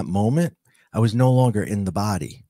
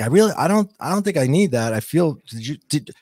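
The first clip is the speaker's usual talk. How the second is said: giddy disbelief; 4 semitones higher, faster than usual. Retold or imitated. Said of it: "And I was like".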